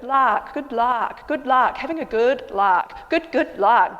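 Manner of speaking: "lark" with an open ah vowel, loud; luck like lark. Shown as a demonstration. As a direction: open the mouth wide on "lark". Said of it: "Say it like a lark, a bird".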